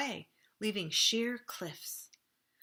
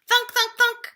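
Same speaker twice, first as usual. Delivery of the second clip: high, loud cartoon thunks; 14 dB louder than usual. A narrator's reading. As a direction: bang out each thunk high. Pine cones raining down.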